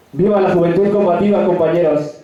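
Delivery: rousing rally cry; ranting dictator speech. Real, not acted. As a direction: shout it to the crowd. Rally closing cheer.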